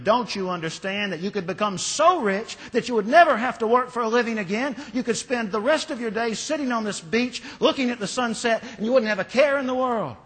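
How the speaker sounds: high, loud, fast exasperated shout; shouting businessman. Acted. Raging businessman shouting at the smiling fisherman, high and loud. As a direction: yell it, red with rage. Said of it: "he shouted at the fisherman".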